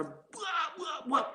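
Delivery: high-pitched mimicked "buak" blows; imitated beating thuds. Speaker re-enacting his beating for the audience, imitated blows. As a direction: mimic each punch landing, high and punchy.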